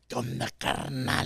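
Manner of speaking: put-on slow Spanish with a light Irish accent; mock drunk Irishman greeting in Spanish, lightly Irish. Friend imitating his Irish buddy saying Spanish, light Irish accent. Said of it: "with his heavy ass Irish accent".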